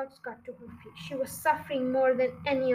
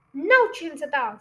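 a touch of a louder snap; mild snap; 2 semitones higher, 7 dB louder than usual. Acted. Mister Fox refusing his children, mildly snapped. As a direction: cut them off firmly. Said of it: "snapped Mister Fox".

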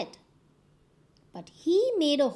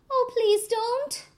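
higher, louder pleading cry; crying plea; 11 semitones higher, 6 dB louder than usual. A narrator's reading. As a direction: beg not to be eaten, mock sobbing. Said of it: "and he began to cry".

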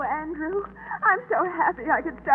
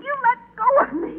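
crying; 6 semitones higher, faster than usual. Acted. Girl struggles, crying.

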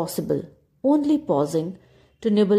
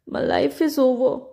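high, mewing cat voice; 6 semitones higher than usual. A narrator's reading. Cat to dog and donkey, a high mewing wail. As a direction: mew it out, sad and small. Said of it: "mewed the cat".

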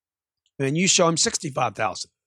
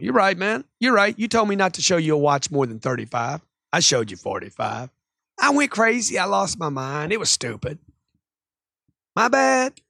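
rational placating. Acted. Salesman admitting fault to upset customer, mock placating. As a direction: agree and take all the blame, playfully. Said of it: "Stay rational".

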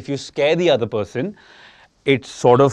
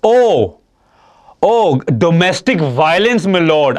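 hammed-up gasp of outrage, slow and louder; mock shock; 4 semitones higher, 5 dB louder, much slower than usual. Husband jokingly acts shocked at wife's slap confession. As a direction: overplay being scandalised.

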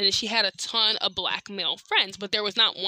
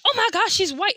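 mock shock; 10 semitones higher, 4 dB louder than usual. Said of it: "I wasn't looking at it like".

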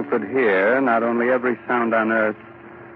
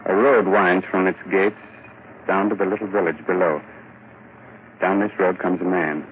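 story narration; 2 semitones lower than usual. Acted. Narrator sets the scene.

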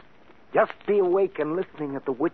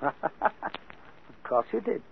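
slow, breathy chuckle through the words; knowing laugh; 7 dB quieter, much slower than usual. Acted. Composer mocking the guest who saw the ghost, slow knowing laugh. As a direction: savour it like a private joke.

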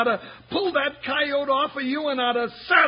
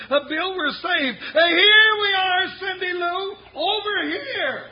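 high, loud relieved shout; excited calling; 6 semitones higher, 3 dB louder than usual. Acted. Sidekick shouts to Cindy Lou that they are here, excited. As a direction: yell out with joy that help has come. Rescue arrives, sidekick calls out.

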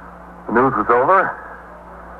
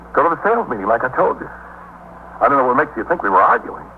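defensive denial; 4 semitones higher than usual. Acted. Detectives suggest a quarrel.

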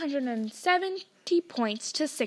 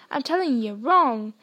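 hotly; 6 dB louder than usual. Acted. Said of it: "said Hagrid hotly".

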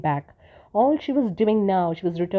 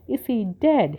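distraught cry; 4 semitones higher, slower than usual. Acted. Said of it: "she cried".

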